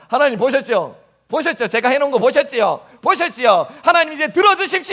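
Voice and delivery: a hint of a proud believer showing off to God, rising to a high demand; mock self-satisfied pleading, high at the end; boastful prayer. Preacher mimicking a believer who shows God his deeds, mildly smug. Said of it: "라고 나아가는 그런 마음들이".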